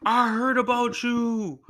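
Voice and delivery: a relative recognises him as Harry's stepson, drawn out; relative's realisation. Retold or imitated.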